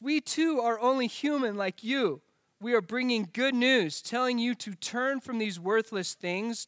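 measured, deliberate reading aloud; scripture reading. Acted. Pastor reading verses to the congregation, measured scripture reading. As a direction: read the passage out with careful pauses. Reads the Bible passage aloud.

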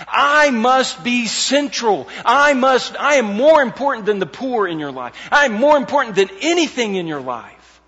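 loud, high-pitched preacher's insistence; sharp rebuke. Retold or imitated. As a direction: voice Christ's rebuke at full preaching force. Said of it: "So it's a sharp rebuke".

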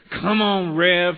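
loud imitation of a fired-up churchgoer; mimicked amen-corner holler; congregation shout. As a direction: call out encouragement to the preacher. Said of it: "you'd hear someone in the congregation go".

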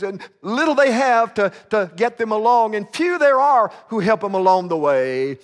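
preacher rebuking the atheist. Retold or imitated. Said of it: "He said".

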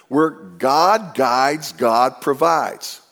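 slow, deliberate rhyme; slow maxim. Shown as a demonstration. Pastor giving the congregation a memorable saying, slow and deliberate. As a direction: let the saying land slowly.

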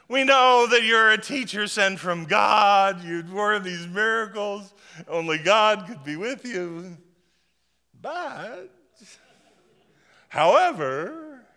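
high, loud gushing praise then a slow drawn but; flattering Nicodemus. Retold or imitated. Nicodemus flattering Jesus before his objection, high and gushing.

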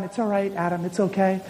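low, soft reassurance; calm them down, softly and low; soothing God. Acted. God reassuring Adam, soothing. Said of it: "he's trying to tell Adam".

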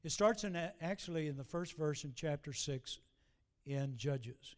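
normal talking voice

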